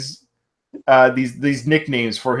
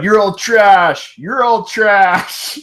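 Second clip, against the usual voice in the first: mock yell; 5 semitones higher, 3 dB louder, much slower than usual. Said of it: "he yells at the crowd".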